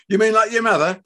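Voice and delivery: loud, high jeering question; loud derision; scornful shout. Acted. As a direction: fling it mockingly at your son. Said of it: "Fred shouted".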